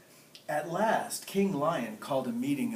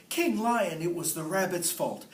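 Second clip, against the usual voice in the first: crow's voice; 6 semitones higher, 6 dB louder than usual. Acted. Crow blames the rabbit.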